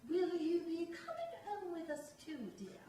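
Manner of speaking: lightly voiced sugary sarcasm; a hint of fake politeness; mock sarcastic sweetness. Woman in blue velour teasing the teller, mild mock sweetness. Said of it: "I knew it was sarcastic".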